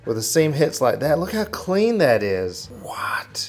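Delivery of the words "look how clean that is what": whispering. Real, not acted. Close look at the seam.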